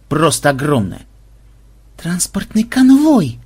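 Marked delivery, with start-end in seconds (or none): 2.0-3.4 slow, high, greedy delight; predatory relish. Acted. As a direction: savour it like prey. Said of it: "плотоядно облизнувшись". (плотоядное предвкушение)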